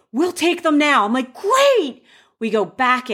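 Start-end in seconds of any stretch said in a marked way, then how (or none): 0.1-1.0 high, eager mock offer of help; pitched-up imitated can-do reply; imitated eagerness. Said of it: "these two awesome people jump up and say". 1.3-2.0 very high, squealed retold reply; high-pitched mock delight; acted excitement. Retold bride's relieved reply.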